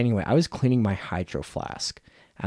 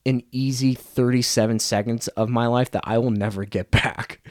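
irritated, louder complaint to the departed salesman; a touch of exaggerated outrage; annoyed retort; 3 semitones higher, 4 dB louder than usual. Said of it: "I was like".

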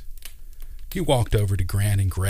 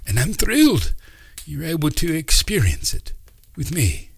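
put-on high, louder eccentric old man musing; wise old uncle; 7 semitones higher, 3 dB louder than usual. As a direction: speak like a kindly mystic uncle teaching children. Uncle Doc's voice.

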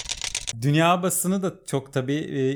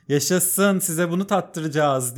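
mock jubilant; 4 semitones higher, slower than usual. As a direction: play the gloating winner. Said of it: "çok mutluydu".

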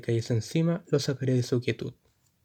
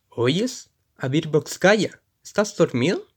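impaciente; 3 semitones higher, slower than usual. Acted. Militar impaciente con Jonah.

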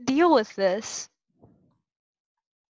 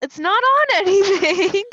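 louder, laughing through it; 3 semitones higher, 7 dB louder than usual. Real, not acted. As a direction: break into a laugh midway.

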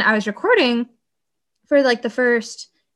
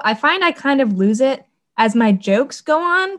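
ordinary delivery

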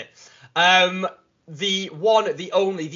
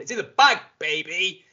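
excited; 4 semitones higher, 3 dB louder than usual. Real, not acted. Catchphrase hype.

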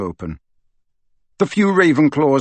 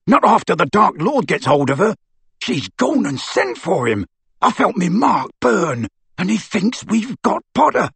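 rough, higher, anxious; frightened thug; 6 semitones higher than usual. Acted. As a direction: fear under bluster. Amycus voiced in story.

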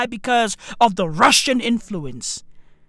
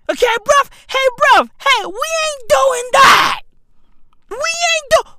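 much higher, louder ranting refusal; ranting shout; 13 semitones higher, 4 dB louder than usual. Acted. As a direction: shout him down, fed up.

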